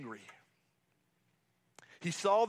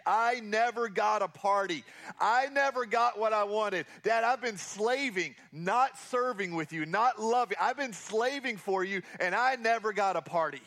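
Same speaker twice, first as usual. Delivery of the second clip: resentful elder brother; 2 semitones higher than usual. Retold or imitated. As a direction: play the bitter son demanding his due. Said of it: "Doesn't that sound selfish to you?".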